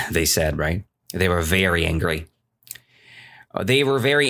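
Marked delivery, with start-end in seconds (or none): none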